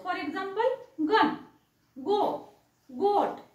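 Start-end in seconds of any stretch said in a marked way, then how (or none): 1.1-3.4 गन, गो, गोट each opening on hard g. Shown as a demonstration. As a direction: separate model words गन, गो, गोट with ग sound. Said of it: "जीचा उच्चार ग होतो".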